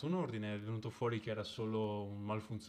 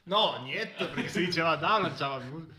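laughing; 7 semitones higher, 9 dB louder than usual. Real, not acted. Laughing at the absurd joke.

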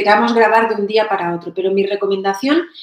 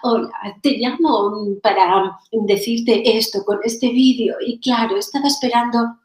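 mock affected video voice. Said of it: "Esos vídeos".

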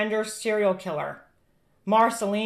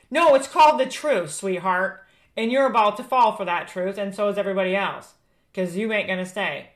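mock the press secretary as doom comes; doomsday street preacher.

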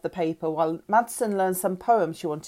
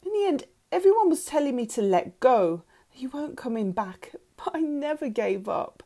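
high, emotional outpouring; anguished confession; 6 semitones higher than usual. A narrator's reading. Mother telling daughter she never gave up, anguished. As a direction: confess it with raised pitch, pained. Annie confesses her obsession.

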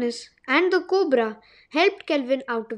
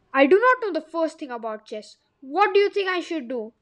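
grumpy; 2 semitones higher than usual. Acted. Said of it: "grumped Magnus".

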